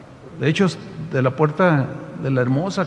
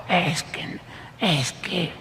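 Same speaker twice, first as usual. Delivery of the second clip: distressed confession; 4 semitones higher, slower than usual. Retold or imitated. Woman upset, cannot forgive.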